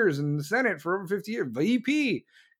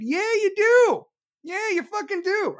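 angry retort; 12 semitones higher, 5 dB louder than usual. Real, not acted. Ranting retort.

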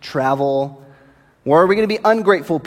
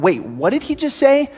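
confused; 9 semitones higher than usual. Retold or imitated. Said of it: "you're like".

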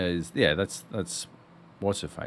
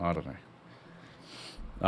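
slow whisper; 7 semitones lower, 12 dB quieter, much slower than usual. Real, not acted. Drawn-out unsure musing.

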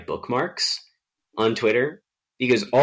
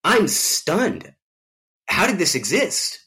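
high, airy voice of stunned disbelief; 10 semitones higher, much slower than usual. Retold or imitated. Viewer stunned by an old James Bond movie, high mock disbelief. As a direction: gasp it out in mock shock, pitched way up. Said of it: "you're just watching it like".

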